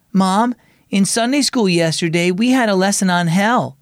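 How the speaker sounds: a hint of a worried daughter; troubled girl. Daughter tells Mom about Sunday school, lightly troubled. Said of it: "she said in a troubled voice".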